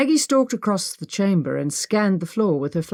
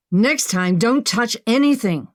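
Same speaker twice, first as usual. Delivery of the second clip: snapped; 5 semitones higher, 3 dB louder than usual. Acted. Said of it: "she snapped".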